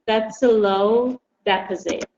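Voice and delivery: deposit as a noun: DE-posit; stress on deposit. Shown as a demonstration. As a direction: say "deposit" with the stress on the first syllable. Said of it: "pay attention to the pronunciation of the word".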